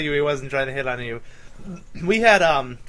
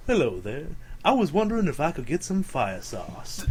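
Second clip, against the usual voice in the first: deep smooth customer; 5 dB quieter than usual. Retold or imitated. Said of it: "deepest, most sensual voice".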